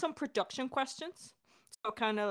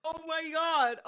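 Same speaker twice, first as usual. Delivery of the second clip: emotional exclaim; 6 semitones higher than usual. Real, not acted. Hosts celebrating episode release.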